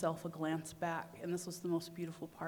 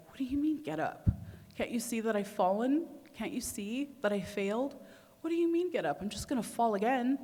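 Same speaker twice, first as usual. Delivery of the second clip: high, louder pleading disbelief; frantic mock protest from the ground; desperate protest; 5 semitones higher, 4 dB louder than usual. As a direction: push back like you can't believe what you're hearing. Protesting to the voice after falling.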